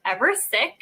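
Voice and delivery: "Ever sick" with a lifted, sassy tune; teasing slang with some attitude. Shown as a demonstration.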